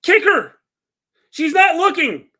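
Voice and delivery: loud excited yell at the screen; cheering the match on. Real, not acted. Yelling at wrestling on screen.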